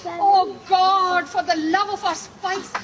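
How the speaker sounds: loud hammed-up exclamation; theatrical swoon. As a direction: swoon over the spice. Swooning over spice.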